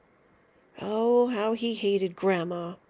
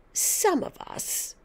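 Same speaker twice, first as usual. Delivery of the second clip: high, slow, breathless hiss of a whisper; throaty whisper; 10 semitones higher, slower than usual. Acted. Grandma leaning toward George, slow throaty whisper. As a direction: lean in and whisper it slowly. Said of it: "whispering in a throaty sort of voice".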